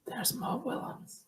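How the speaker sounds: sly whispered aside. Real, not acted. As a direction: whisper it like a secret. Whispered aside spotting author.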